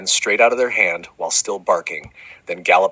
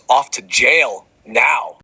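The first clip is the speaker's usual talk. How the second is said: loud slow shouted order; shouting; 5 semitones higher, 4 dB louder, much slower than usual. Acted. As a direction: bellow it at the stage. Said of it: "stands up and screams".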